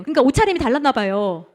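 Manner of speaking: ordinary delivery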